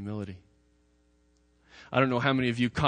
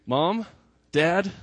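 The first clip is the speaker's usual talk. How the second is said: put-on child calling parents; 8 semitones higher, 6 dB louder than usual.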